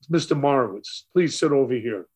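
lightly polite invitation; courteous, in an understated way. Retold or imitated. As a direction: politely offer a seat to an elder. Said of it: "Very polite to my father".

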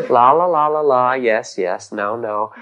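lightly mimicked babble, starting loud and sinking; mock idle chatter. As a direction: rattle off a hint of empty back-and-forth chatter. Imitates chatter that puts us asleep.

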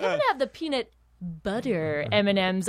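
self-satisfied order, drawing out BUTTER; smug little grin. Retold or imitated. Nerd splurging at the movie counter, smug. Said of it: "I said it just like that".

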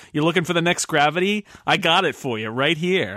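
New York pitchman. Retold or imitated. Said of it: "I don't know why they have that accent".

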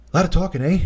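lightly Canadian tag question; a hint of a Canadian "eh"; Ken. Imitating Ken during a long promo, light Canadian voice. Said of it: "Ken is just like".

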